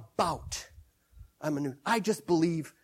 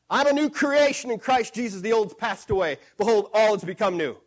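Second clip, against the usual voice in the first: bold declaration; 5 dB louder than usual. Shown as a demonstration. Preacher shows the believer proclaiming scripture with loud authority. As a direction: proclaim it louder, ringing with authority. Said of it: "And you say".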